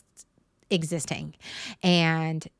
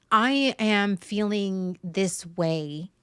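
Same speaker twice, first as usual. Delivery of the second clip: slow and deliberate; much slower than usual. Shown as a demonstration. Models reframed sentence, then repeats it.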